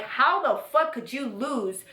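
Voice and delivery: retold indignation, drawn out and rising high; incredulous, re-enacted scolding; exasperated anger. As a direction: stretch the stressed words in mock outrage. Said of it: "I genuinely felt the feelings of anger".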